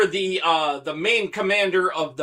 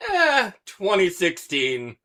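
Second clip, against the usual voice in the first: mimicking unsure answer; 2 semitones higher than usual. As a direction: imitate someone vaguely guessing. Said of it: "You sound very unsure, though. ... You're like".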